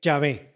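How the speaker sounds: Yahvé said as YAH-veh, stress on the last syllable; Yahvé pronounced. Shown as a demonstration. Preacher tells the congregation how to pronounce the name, Yahvé said as YAH-veh. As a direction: give the word Yahvé slowly and clearly, YAH-veh. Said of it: "La pronunciación de este término sería".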